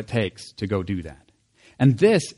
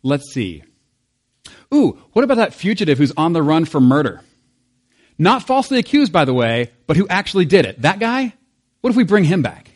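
mock committee voice; 2 semitones higher, 3 dB louder than usual. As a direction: play a clueless recruiter floating a bad idea. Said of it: "you're like".

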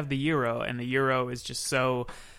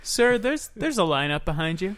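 impatient cashier; 5 semitones higher than usual. Acted. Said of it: "Can we roleplay".

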